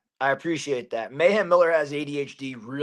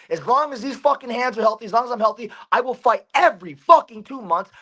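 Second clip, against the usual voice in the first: higher-pitched, insistent fighter's promo; impassioned declaration; 5 semitones higher than usual. Real, not acted. Fighter demanding bouts from the promotion, impassioned and high. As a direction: drive each phrase home with rising fervour.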